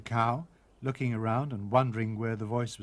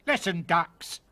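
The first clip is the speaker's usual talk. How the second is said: cockney cook; 5 semitones higher, 3 dB louder, slower than usual. Acted. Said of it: "quite forgetting herself".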